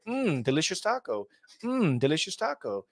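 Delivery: repeating the catchphrase in a robotic streamer voice; a light NPC parody; mock NPC streamer. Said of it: "It's like".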